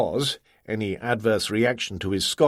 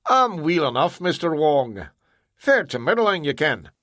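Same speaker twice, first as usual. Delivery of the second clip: higher-pitched broad Scottish brogue; a Clydeside engineer's put-on Scottish; hearty Scots voice playing down being ill; Scottish accent; 4 semitones higher than usual. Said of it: "the phony accent that went with it".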